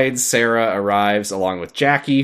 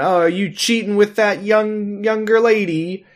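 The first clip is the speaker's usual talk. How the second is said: mock yelling; 9 semitones higher than usual. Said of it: "she's yelling".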